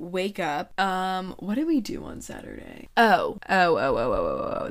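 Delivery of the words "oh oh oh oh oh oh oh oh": sudden recall. Real, not acted. Sudden remembering.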